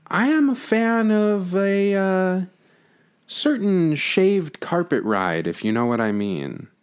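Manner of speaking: sly, hushed innuendo; flirty teasing dating host. Acted. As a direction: lean in and whisper the tease.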